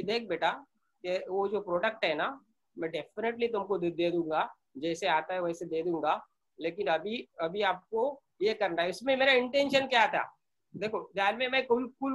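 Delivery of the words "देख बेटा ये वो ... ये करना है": calm and cool. Retold or imitated. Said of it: "मैं cool से बोला, शांति से बोला".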